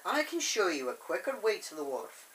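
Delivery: lightly imitated Scottish accent. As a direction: put on a touch of Scottish. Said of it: "Duncan's Scottish accent in The Great Discovery".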